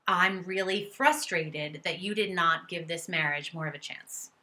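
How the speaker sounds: venting at an ex. Shown as a demonstration. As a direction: let the betrayal pour out loud. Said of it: "Whatever you're feeling".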